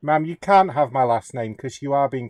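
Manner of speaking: put-on British accent. Supervisor refusing a customer his last name, British accent. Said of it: "you have a British accent also".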